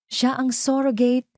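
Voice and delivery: sharp high call from the crowd; shout. Acted. Guest in the crowd exposes Ara, mock high shout. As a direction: cry it out to expose her. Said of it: "Mayroong sumigaw".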